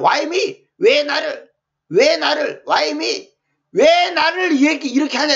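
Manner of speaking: imitating someone protesting to God; hammed-up wounded protest, building on each repeat; mock aggrieved complaint. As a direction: plead "why me" in mild indignation. Acted complaint against God's trials.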